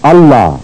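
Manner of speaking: "اللہ" as alla, n dropped and l doubled; silent noon. Shown as a demonstration. Teacher demonstrating the rule, "اللہ" as alla without n. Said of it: "پھر بھی نون غائب ہو جاتا ہے".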